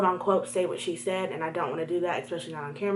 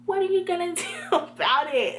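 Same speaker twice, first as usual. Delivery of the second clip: high, mocking imitation; challenging classmate; 9 semitones higher than usual. Classmate goading the storyteller, high mocking imitation. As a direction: throw the taunt out in a raised pitch. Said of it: "And she was like".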